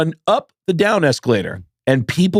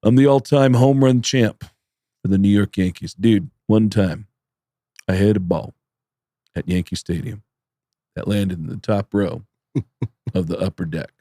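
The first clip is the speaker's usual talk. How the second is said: Judah Friedlander; 5 semitones lower than usual. Retold or imitated. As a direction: imitate a tall-tale teller, pausing between phrases. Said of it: "And Judah goes".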